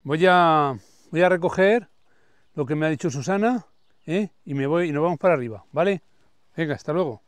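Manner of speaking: loud call into the walkie-talkie. Real, not acted. The speaker answering Susana from the garden, loud call. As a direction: raise your voice so it carries over the radio.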